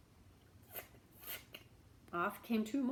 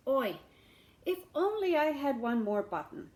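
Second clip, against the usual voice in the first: higher, louder sighing hint; 5 semitones higher, 6 dB louder than usual. Acted. Beggar hinting again at the shamus, louder. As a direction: sigh it out pointedly.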